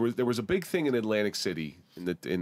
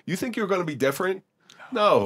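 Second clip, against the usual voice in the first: mock wife voice; 12 semitones higher, 6 dB louder than usual.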